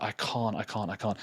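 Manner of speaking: soft, shrinking I can't; almost swallowing the words in dread; reluctant pleading. Retold or imitated. Intern to stepmom on phone, softly pleading refusal.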